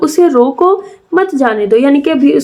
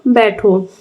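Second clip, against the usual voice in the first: "बैठो" on its own after a pause, lower; separate, low-pitched "बैठो"; set apart by comma; 4 semitones lower, slower than usual. Shown as a demonstration. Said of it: "यहाँ पे लग गया comma".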